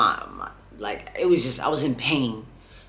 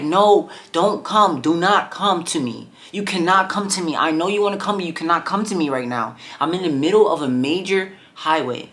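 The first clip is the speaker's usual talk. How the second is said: urgent warning; 3 semitones higher than usual. Retold or imitated. Urgently stopping family coming.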